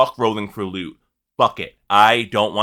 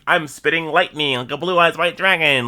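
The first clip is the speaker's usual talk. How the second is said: lightly put-on, raised voice; hammed-up dragon boast; 4 semitones higher than usual. Player voicing the lightning-spitting boss, mock grand. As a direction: proclaim it with mock grandeur, pitched up. Quoting the boss's attack.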